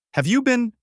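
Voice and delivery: sudden high, sharp challenge; spring the question on him; pointed question. A narrator's reading. Wife catching husband in a lie, sharp and pointed.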